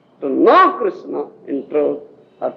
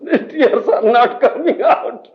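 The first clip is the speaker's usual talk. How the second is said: slow laughing mock lament; mock tearless whine, laughing; laughing complaint; 5 semitones higher, slower than usual. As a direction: play the disciple who can't cry. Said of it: "How can I cry?".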